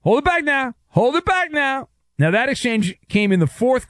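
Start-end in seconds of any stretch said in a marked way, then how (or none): 0.0-1.9 high, strained wrestling-show holler; put-on high voice, mock frantic; pro-wrestling mock outburst. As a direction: imitate a hammed-up pro-wrestling scuffle. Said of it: "It was like professional wrestling".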